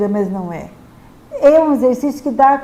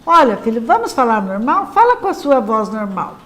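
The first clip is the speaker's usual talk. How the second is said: put-on calm, clear correction to a child; firm parent, without scolding. Shown as a demonstration. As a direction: speak plainly and firmly, no scolding. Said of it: "com clareza e firmeza".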